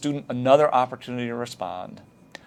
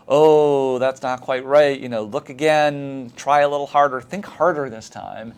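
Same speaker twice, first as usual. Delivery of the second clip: teacher nudging student; 2 semitones higher, 4 dB louder than usual. Shown as a demonstration. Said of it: "the worst thing is when you say".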